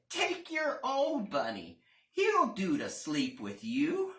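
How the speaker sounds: a busy nanny, brisk. Acted. Nanny speaks.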